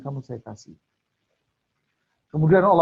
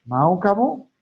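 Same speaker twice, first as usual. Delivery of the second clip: raised, rising challenge to the crowd; louder question; 4 semitones higher, 5 dB louder, slower than usual. Acted. Preacher challenging the congregation, loud rising question.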